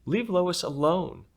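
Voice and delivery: put-on high, slow, firm plea of a shy girl at her bravest; shy girl finally speaking up for the guinea pig; loudest voice ever. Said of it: "in the loudest voice she had ever used".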